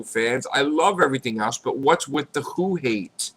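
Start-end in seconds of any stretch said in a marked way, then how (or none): none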